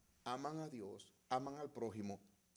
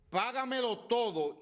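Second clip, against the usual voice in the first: loud, high, drawn-out demand; forceful acted demand, pitched high; demanding creditor; 11 semitones higher, 11 dB louder, slower than usual. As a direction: bellow it slowly like a merciless creditor. Servant acts out demanding the debt.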